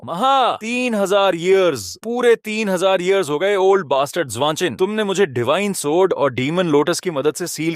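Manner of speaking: high-pitched, gloating ancient demon; triumphant demon emperor. Acted. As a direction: proclaim your freedom after ages sealed away.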